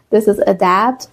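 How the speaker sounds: adapt said uh-DAPT, rising end; teacher repeating adapt; correct adapt. Shown as a demonstration.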